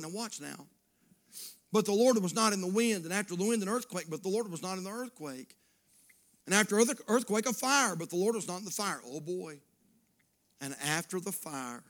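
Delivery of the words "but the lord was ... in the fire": driving pulpit reading, surging on key phrases; forceful scripture reading. Acted. Preacher reads of wind and fire, driving proclamation. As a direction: proclaim each verse with building momentum.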